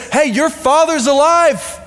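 put-on knowing, playful old mentor; an old baboon breaking the news; wise old sage. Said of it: "smacks a little sense into Simba and says".

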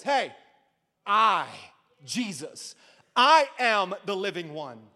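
a touch of swagger, each word spaced out; lightly voiced Jesus taunting the devil; mocking boast. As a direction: taunt the enemy a little. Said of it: "he kinda mocks the enemy".

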